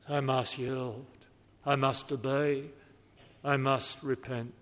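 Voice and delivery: a penitent's prayer, mostly low and hushed; kneeling sinner pleading with God for pardon; earnest prayer. Acted. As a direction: pray it out humbly, as a confessing sinner.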